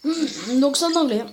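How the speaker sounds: a bit hoarse from being ill. Real, not acted. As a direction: speak with a slightly broken, sick voice. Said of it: "Désolé si j'ai la voix cassée".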